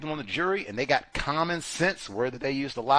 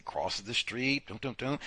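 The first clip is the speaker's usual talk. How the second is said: mock hushed; 2 semitones lower, 8 dB quieter than usual. Witnesses tracking the figure quietly, softly. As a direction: narrate it under your breath. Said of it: "they say".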